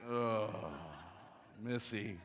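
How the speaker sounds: groaned lament building to a loud cry; exasperated husband. Retold or imitated. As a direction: groan in mock despair at your wife. Exasperated husband reacts to wife's decision.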